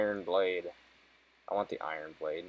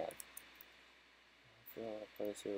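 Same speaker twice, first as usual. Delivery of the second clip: whispered NPC line; 22 dB quieter, much slower than usual. Acted. Reads NPC line aloud.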